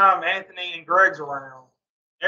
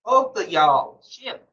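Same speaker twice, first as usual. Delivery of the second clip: drawn-out, weary shut up to two bickering people; mock tired plea to quit arguing; exasperated plea; 2 semitones higher, slower than usual. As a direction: beg them to stop, fed up. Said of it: "I'm like".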